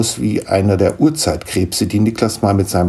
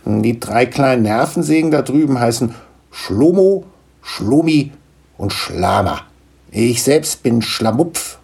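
slightly higher, lively gnome voice; a touch of a proud little gnome; lightly voiced gnome father; 5 semitones higher than usual. Gnome introducing his children to Niklas, lightly voiced.

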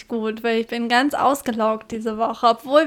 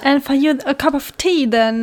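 put-on British accent; 2 semitones higher, 4 dB louder than usual. Answers in British voice.

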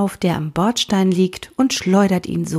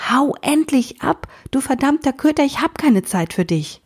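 higher, half-acted angry yell at the dog; boy pretending to be furious, shouting higher; mock roar; 7 semitones higher than usual. A narrator's reading. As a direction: bellow to chase the dog off, but not meaning it. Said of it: "brüllt wieder".

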